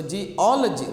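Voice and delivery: geology with a strong "ol"; stress on second syllable. Shown as a demonstration. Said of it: "you give the stress there".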